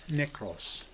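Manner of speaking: "nekros" as NEK-ros, softly; careful Greek pronunciation. Shown as a demonstration. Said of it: "It is pronounced nekros".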